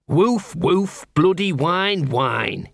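high spoken barks and whine; sarcastic talking dog. Acted.

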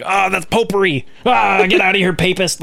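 high, scandalised mock Puritan; lightly hammed-up prude; mock outraged Puritan. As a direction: scoff like a scandalised old Protestant. Mocking old-timey Protestants.

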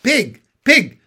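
high, loud animal call; kindly calling. A narrator's reading. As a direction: call the pig with a sing-out lift. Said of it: "in a kind voice".

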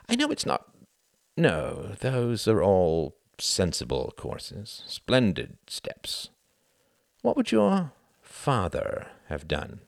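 high, halting and slow; grasping for an answer; Sam, flustered. Acted. Sam fumbling and then asking Cuthbert for advice, high and flustered.

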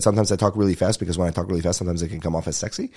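quick, run-on retold patter; talking really fast. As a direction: rattle it off fast. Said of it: "ridiculous how fast I could talk".

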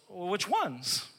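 cheeky questioning, high on all of them; a hint of a know-it-all; mock eager questioner; smug young ruler. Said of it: "the rich young ruler goes".

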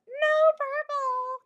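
high slow mock yell of no purple. People at camp yelling at them, mock yell. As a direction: call it out high and drawn out. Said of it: "people yelling at us".

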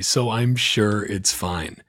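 sarcastic. Real, not acted. Mocking Yellen's dismissal.

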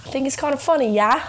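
badly faked British accent; put-on British accent. Host joining the accent bit, mock British accent.

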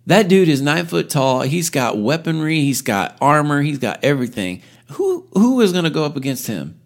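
incredulous soldiers. Retold or imitated. Soldiers answering David in high disbelief. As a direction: scoff at the boy's idea. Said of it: "I can imagine the look on the men's faces".

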